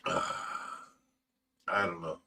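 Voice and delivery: a defeated, barely-there murmur; heavy sigh. Real, not acted. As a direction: let the grief drain the words out slowly. Grieving over a friend's loss.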